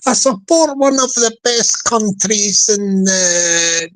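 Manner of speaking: slow put-on Mancunian accent; Manchester accent. Shown as a demonstration. Playing a football supporter, in slow Manchester accent. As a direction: take it slowly in mock Mancunian. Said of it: "So why they say Manchester?".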